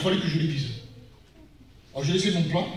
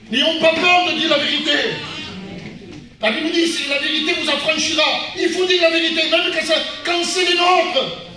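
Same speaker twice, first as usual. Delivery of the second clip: forceful preaching; 9 semitones higher, 5 dB louder than usual. Acted. Preacher exhorting the congregation to tell the truth, forceful. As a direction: preach it out, higher and louder.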